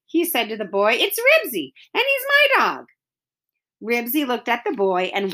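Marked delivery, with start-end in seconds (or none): 0.9-2.9 upset insistence. Acted. Henry insisting to the boy.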